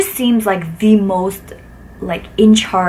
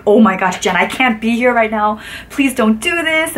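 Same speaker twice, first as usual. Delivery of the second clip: mock-anxious plea, slowing at the end; imitating nervous friend; 2 semitones higher than usual. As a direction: play Peter begging her to stop. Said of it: "he was just so nervous".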